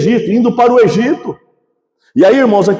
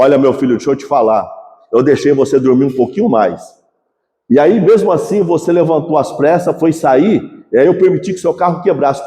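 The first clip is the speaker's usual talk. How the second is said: a lower, calm fatherly God voice, lightly acted; God's patient answer; 7 semitones lower than usual. (voz de Deus, calma e mais grave, levemente encenada)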